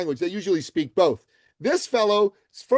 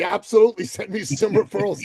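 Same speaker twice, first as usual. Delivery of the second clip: eager yes; 2 semitones higher than usual. Pretend. To the host offering referrals, eagerly accepting. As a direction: jump at the offer. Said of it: "My answer would be".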